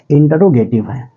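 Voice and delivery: इंटरोगेटिव with in-ter-ro, not intro; correct pronunciation. Shown as a demonstration. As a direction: say इंटरोगेटिव slowly with four syllables. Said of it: "ये इंट्रोगेटिव नहीं है". (इंटरोगेटिव, इंट्रो नहीं)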